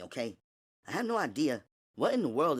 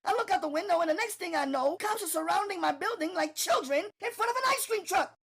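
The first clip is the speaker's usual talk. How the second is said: much higher, loud, rushing; panicked Natalie; 4 dB louder, faster than usual. Acted. Natalie to Gina, panicked shouting. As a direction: spill the chaos in a rush.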